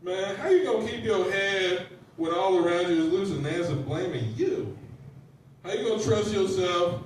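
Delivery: lightly put-on casual poet voice; lightly hammed-up impression of a poet; Rudyard Kipling. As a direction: recite it like loose, conversational street talk. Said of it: "It's my impression of Rudyard Kipling".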